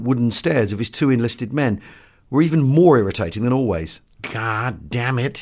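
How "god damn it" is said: slow, exasperated oath; drawn-out but polite exasperation. Acted. Doctor protesting to his two enlisted men, exasperated. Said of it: "expostulated politely in an uncommon excess of exasperation".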